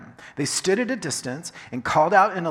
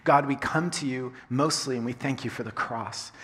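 soft, low prayer voice; 6 semitones lower, 6 dB quieter than usual. Acted. Pastor praying softly to God before the sermon. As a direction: pray quietly to God.

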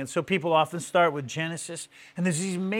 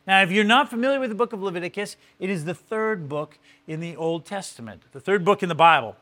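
normal talking voice

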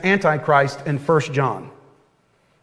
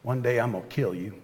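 put-on little boy; 4 semitones lower than usual. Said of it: "with my little self looking up at him".

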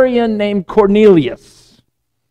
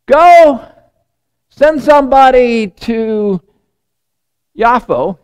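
angel's command; 5 semitones higher, slower than usual. Retold or imitated. Angel speaks to the centurion in a dream, ringing command. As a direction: call out the order, stretching it out. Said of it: "it's an angel".

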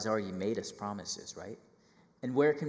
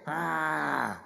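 higher, louder mock outrage at traffic; outraged complaint; 4 semitones higher, 5 dB louder, much slower than usual. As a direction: rant like a fed-up driver. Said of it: "They're like".

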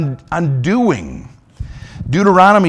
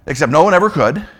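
usual speaking voice

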